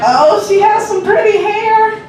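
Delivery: mock admiring. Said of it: "and I was like".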